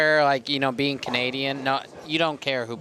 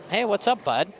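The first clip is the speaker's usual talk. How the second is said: cheery greeting; 8 semitones higher than usual. Retold or imitated. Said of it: "you're like".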